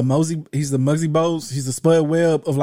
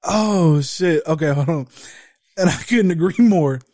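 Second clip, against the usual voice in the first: after laughing hard; 3 semitones higher than usual. Real, not acted. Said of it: "let me compose myself".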